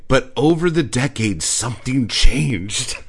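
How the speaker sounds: loud, slowed dramatic read of the article; dramatic mock reading. Reading the article's line to mock its drama. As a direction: boom it out like a trailer.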